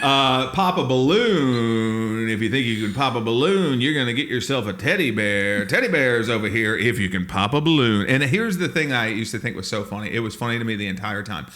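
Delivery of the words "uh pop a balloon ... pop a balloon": carnival barker. Retold or imitated. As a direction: stretch the words to lure players. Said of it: "We were literally carnival barkers".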